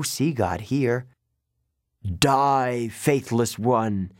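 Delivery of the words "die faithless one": slow, lightly voiced rasped curse; rasping snake lady. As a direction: rasp the death sentence out slowly. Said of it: "Echidna rasped".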